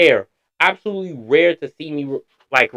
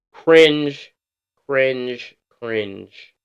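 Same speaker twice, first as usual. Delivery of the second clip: fading cringe; much slower than usual. Real, not acted. Repeats word, fading out.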